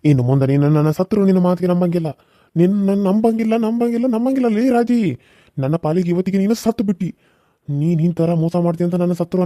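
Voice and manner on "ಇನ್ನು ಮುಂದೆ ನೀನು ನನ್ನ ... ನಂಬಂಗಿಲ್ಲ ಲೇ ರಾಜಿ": angry shout. Acted. Husband denounces cheating wife.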